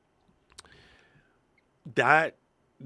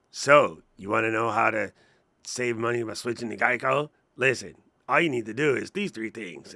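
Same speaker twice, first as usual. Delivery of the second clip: mock AI ad voice; 4 dB louder than usual. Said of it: "I can't do the voice right now".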